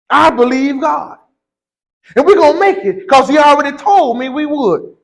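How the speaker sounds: fervent preached declaration; preaching. Acted. Preacher assuring the church they'll make it, fervent. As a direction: proclaim it to the church with conviction.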